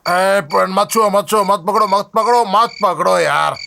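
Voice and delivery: slurred, tipsy refusal of help; drunken protest. Acted. Drunk man to those holding him, tipsy protest. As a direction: fend them off like a drunk.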